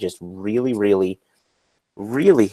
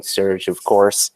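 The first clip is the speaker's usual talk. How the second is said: hushed aside, no voice; whispered aside; slower than usual. Real, not acted. Whispering an aside to the hosts. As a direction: drop the name in a whisper. Aside name dropped in passing.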